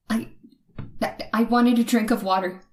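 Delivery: nervous excuse. Acted. Caught sneaking, stammering excuse.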